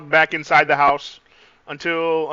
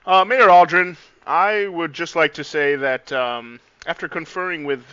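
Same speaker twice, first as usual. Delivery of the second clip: regal voice. Acted. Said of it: "in, like, his best, uh, regal voice".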